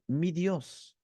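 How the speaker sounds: softly, as a personal possession; hushed, close "Mi Dios"; intimate. Shown as a demonstration. Believer referring to God as his own, intimate. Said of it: "habla de una relación mucho más íntima".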